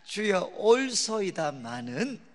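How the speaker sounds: each syllable drawn out, 올소이다마는 spoken slowly and evenly; 외우기 쉽게 천천히 또박또박; slow recitation for memorizing. Shown as a demonstration. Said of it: "이거는 외워두셔야 돼요".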